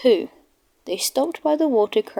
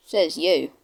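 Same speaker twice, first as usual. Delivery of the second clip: a lower, cheeky comeback; 4 semitones lower than usual. Acted. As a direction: tease back at the boaster. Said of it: "replied Toby cheekily".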